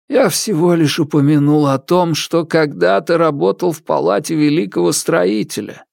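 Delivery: meek ghost servant. Acted. Ghost explains himself.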